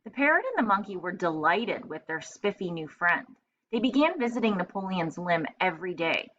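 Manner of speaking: lively read-aloud storytelling voice; story narration. A narrator's reading. Teacher reading a picture book to children, lively. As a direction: read it brightly to young kids.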